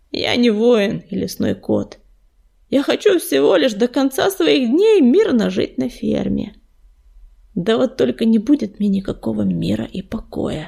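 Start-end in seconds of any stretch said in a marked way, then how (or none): none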